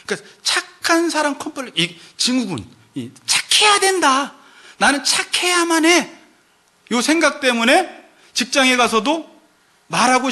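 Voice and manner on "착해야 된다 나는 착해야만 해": inner compulsion. Retold or imitated.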